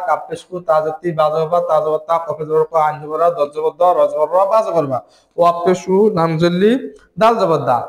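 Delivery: steady chant of spelling drill; letter-by-letter spelling. Shown as a demonstration. Teacher drilling Quran learners, spelling aloud syllable by syllable. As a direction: spell each syllable: letter name, vowel mark, then the sound, like সিন জবর সা. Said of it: "একবারে বানান করে ফেলবো".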